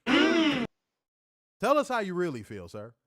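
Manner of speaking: slow, high mock-stately voice, drawing it out; mock formal drawl. Teasing his co-host for his rant, slow and mock-grand. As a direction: stretch each word like a pompous announcer.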